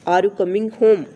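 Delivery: "home?" lifted up at the end; rising question tone. Shown as a demonstration. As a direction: let "home?" rise like a real yes-no question. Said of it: "होम पे थोड़ा सा हम ऊंचे". ("home?" पर आवाज़ ऊपर उठाएँ)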